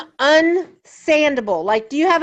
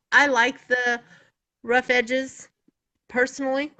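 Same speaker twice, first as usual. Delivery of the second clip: talking through hiccups; words broken by hiccups. Real, not acted. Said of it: "Oh, now I've got the hiccups".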